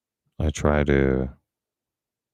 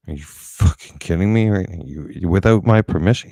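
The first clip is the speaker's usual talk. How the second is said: louder, higher, outraged disbelief; angry retort; 4 semitones higher, 5 dB louder than usual. Retold or imitated. Retold to the doctor, louder and outraged. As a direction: fire it back at him, indignant.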